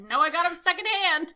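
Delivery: lightly put-on cartoon character reply; mock anime comeback. Acted comeback from funny anime scene.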